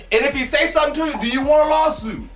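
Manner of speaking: fast, pushy taunting; daring challenge. Pretend. Taunting an imagined boss who objects, pushy dare. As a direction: dare him to say something.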